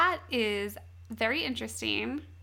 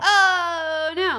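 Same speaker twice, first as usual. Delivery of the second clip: shocked; 6 semitones higher, 10 dB louder than usual. Real, not acted. Reacting to shocking plot twist.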